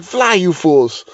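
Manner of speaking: slowly drawn-out wizard's command; lightly acted dramatic last words; Gandalf. Co-host voices the dangling dog as a doomed wizard, mock dramatic. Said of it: "pulling Gandalf".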